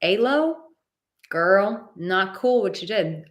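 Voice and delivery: light mock scolding; friendly callout. Imagined friend calling her out.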